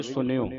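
ਸੁਣਿਓ as "sun-yo" with dental n; plain nanna sound in ਸੁਣਿਓ. Shown as a demonstration. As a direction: model ਸੁਣਿਓ without the retroflex. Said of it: "ਨੰਨੇ ਦੀ ਆਵਾਜ਼ ਉਚਾਰਨ ਹੋਵੇਗੀ".

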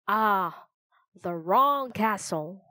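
slow, sly, musing; sly raven king. Acted. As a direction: savor it with menace.

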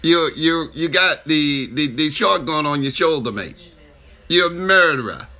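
muddled imitation Australian accent; badly faked, playful Australian accent; mixed-up mock accent. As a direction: put on a wandering Aussie accent. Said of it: "you done added two different things in one".

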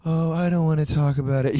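high, whiny mock plea for sympathy; mocking attention-seeker. Mocking the attention-seekers he can't stand, in a high whiny voice. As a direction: parody a friend fishing for pity online. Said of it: "this little cryptic fucking".

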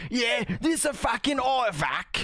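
slow, strained mock British accent. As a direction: ham up a British bloke accent, slowly. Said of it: "that hurts my throat".

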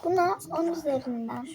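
soft unvoiced whisper, slowing down. Real, not acted. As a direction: whisper it so nobody hears. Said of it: "biraz fısıldayarak konuşuyorum".

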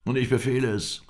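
high, loud angry order; angry command. A narrator's reading. Old sheikh rises to overrule the guest, angry. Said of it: "indem er sich zornig erhob".

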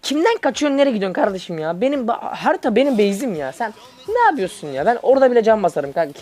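heated taunt. Real, not acted. Taunting a fleeing enemy champion, high and heated. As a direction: stretch it out, high and mocking.

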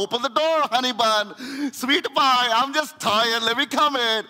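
mock sweet-talking plea to be let in; pleading husband. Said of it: "he's out there knocking on the door".

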